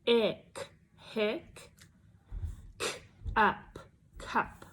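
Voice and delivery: "H, ick, hick" and "k, up, cup" sounded out piece by piece; sounding out. Shown as a demonstration. Teacher sounding out hiccup with a child. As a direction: sound out each chunk then blend. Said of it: "Ready to blend with me?".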